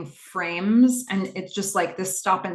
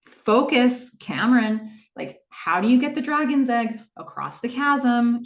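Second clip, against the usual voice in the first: urgent quiz; 5 semitones higher, 3 dB louder than usual. Retold or imitated. Quizzing her to distract panic.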